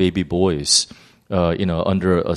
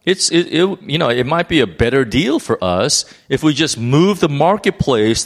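lightly voiced leaders, pitched higher; scheming leaders' voice; 5 semitones higher than usual. Chief priests thinking up a better deal, lightly acted scheming voice. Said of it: "the chief priests and the leaders thought".

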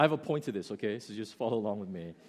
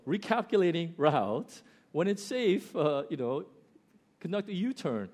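higher, lightly imitated nagging prompt; insistent GPS voice; 5 semitones higher, 3 dB louder than usual. GPS to driver who knows better, high and insistent. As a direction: repeat it like a persistent navigation voice. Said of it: "the voice kept saying".

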